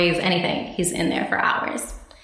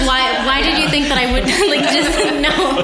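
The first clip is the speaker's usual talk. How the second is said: laughing through a retold protest, higher and louder; half-laughing, mock exasperated; giggling as she retells the question; laughing disbelief; 7 semitones higher, 4 dB louder than usual.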